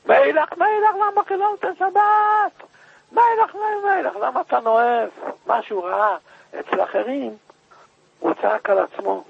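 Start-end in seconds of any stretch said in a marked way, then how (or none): 0.0-5.1 weeping. Retold or imitated. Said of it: "התחיל לבכות".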